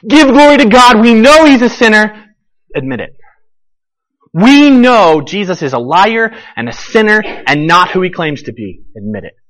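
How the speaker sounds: corner him, demand a confession; accusing Pharisees. Acted. Pharisees pressing the healed man.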